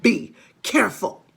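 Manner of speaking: put-on loud, gloating old hag; gloating warning. Mrs Twit gloating at her husband, loud and taunting. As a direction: taunt him with a threat.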